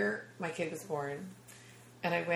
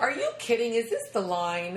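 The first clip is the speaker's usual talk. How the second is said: loudmouth yell; 5 semitones higher, 3 dB louder than usual. Retold or imitated. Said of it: "I'm such a loudmouth".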